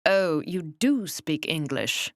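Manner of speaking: acidly. Acted. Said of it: "I observed acidly".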